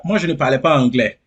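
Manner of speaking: real laugh breaking out after the words; amused admission. Real, not acted. Guest admits to interviewer he spoke no English, amused and laughing.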